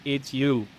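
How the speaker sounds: "it's you" with a mild American twang; American accent. Shown as a demonstration. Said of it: "as, as an American".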